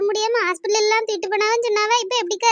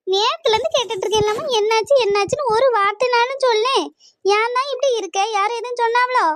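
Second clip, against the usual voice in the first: higher-pitched, exasperated concern; worried pleading; 3 semitones higher than usual. Acted. Daughter begging mother to say what is wrong, exasperated. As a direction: press her anxiously for an answer.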